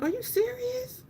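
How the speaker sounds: high, soft, slow disbelief; retold astonishment in a small high voice; incredulous. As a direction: draw the question out high and hushed. Replays disbelief at being told.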